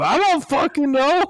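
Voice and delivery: mock yell. Rider yelling back at the animatronic pirate. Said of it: "I'll tell him".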